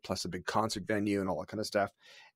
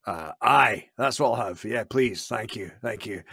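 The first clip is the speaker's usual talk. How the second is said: put-on Scottish accent; 3 dB louder, slower than usual. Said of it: "I just faked my biggest Scottish accent".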